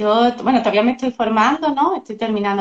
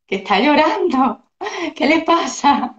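voicing a baby; 5 semitones higher, slower than usual. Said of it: "te mira como diciendo".

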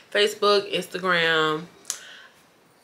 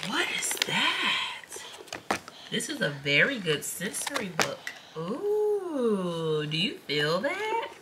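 hushed wonder over a picture book; soft amazed near-whisper; reading to a toddler; 5 semitones higher, 10 dB quieter, much slower than usual. Acted.

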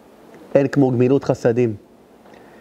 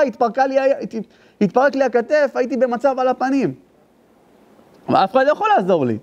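בהלה משוחזרת; 11 semitones higher than usual. Retold or imitated. Father recounts panic in crash.

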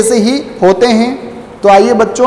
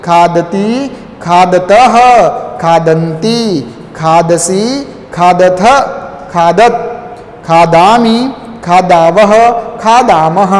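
recitation drill; 3 semitones lower, slower than usual. Shown as a demonstration. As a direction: slightly lower sing-song chant, each form rising. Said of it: "एक बार फिर से".

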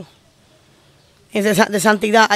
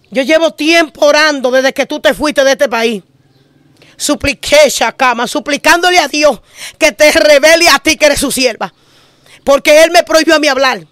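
retold crying; 3 semitones higher, 3 dB louder than usual. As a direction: voice the pastor's tearful confession, pleading. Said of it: "y empezó a llorar".

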